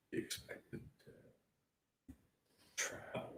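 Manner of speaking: a mocking whisper of the team's excuse. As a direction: breathe it out like a fake excuse. Mock athlete excuse whispered.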